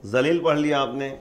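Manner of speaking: ذلیل begun with an emphatic z, as with zo; zo pronunciation. Shown as a demonstration. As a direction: read ذلیل as spelt with zo. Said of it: "زو سے".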